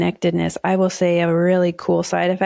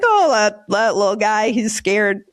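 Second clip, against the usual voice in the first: mild sympathetic cooing, pitched up at first; compassionate; slower than usual. Acted. Speaker pitying a ranting stranger, compassionate. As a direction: coo it like pity for a frightened little creature. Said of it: "I'm also so compassionate to others".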